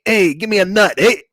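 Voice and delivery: tough tri-state squirrel voice; a lightly voiced Sopranos squirrel; New Jersey mobster accent. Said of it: "they're all a bunch of Tony Sopranos".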